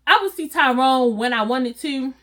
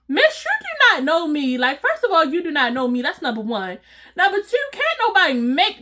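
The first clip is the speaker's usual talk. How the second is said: telling her off; 4 semitones higher than usual. Retold or imitated. Telling Rhonda off.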